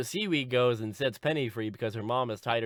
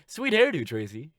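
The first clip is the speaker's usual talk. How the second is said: schoolmates; 3 semitones higher, 4 dB louder than usual. Acted. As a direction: call out a put-on compliment. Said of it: "they're like".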